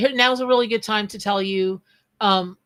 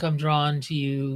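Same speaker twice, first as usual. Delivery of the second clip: lightly mocked bot come-on, lower; imitating weird bot; 5 semitones lower than usual. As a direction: recite it like a spam bot, pitched down. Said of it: "weird way that the bots are".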